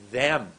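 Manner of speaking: THEM pushed out loud and long; new-way emphasis. Shown as a demonstration. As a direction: land hard on THEM, falling. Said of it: "Let's try the new way".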